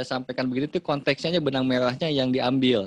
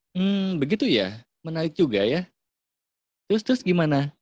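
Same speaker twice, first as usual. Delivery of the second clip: warm, curious higher voice; encouraging parent, all ears; interested listener; 4 semitones higher than usual. Shown as a demonstration. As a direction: show the child you're listening. Parent showing interest to child.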